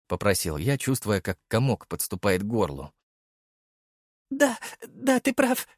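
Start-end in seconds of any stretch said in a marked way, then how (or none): 4.3-5.7 put-on a mother overcome, clutching her children; tearful mother. Mother hugs son and bride, in a high tearful voice. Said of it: "всхлипнула мать".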